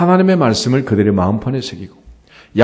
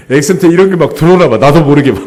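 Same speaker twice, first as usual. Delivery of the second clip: laughing; 4 semitones higher, 4 dB louder than usual. Real, not acted. Laughs at his own accent.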